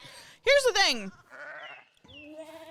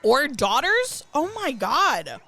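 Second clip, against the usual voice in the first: scandalized; 3 semitones higher, 5 dB louder, much slower than usual. Real, not acted. Shocked at Franklin story.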